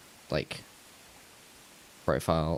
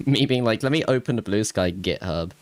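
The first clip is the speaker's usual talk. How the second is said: laughing; 3 semitones higher, 6 dB louder than usual. Real, not acted. Mocking herself, laughing.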